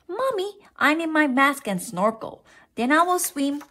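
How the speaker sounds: put-on high-pitched child's plea; pleading child. A narrator's reading. Froggy asking mother for snorkel, high plea. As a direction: pipe it up high to a parent.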